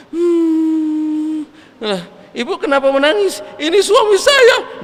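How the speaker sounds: high, rising to a shouted claim; indignant wife. Acted. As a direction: snap that he is her husband. Second woman claims the dead husband.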